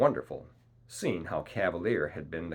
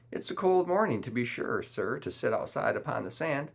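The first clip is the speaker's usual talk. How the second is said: complaining; 6 semitones higher, 3 dB louder than usual. A narrator's reading. Long John told to sit outside, complaining. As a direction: grumble in a raised, put-upon voice. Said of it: "complained Long John".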